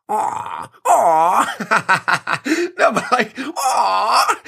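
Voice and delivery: laughing, high pitched aw; real laughter. Real, not acted. Host cracks up over his own steak joke, laughing. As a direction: laugh it out, breaking up mid-line.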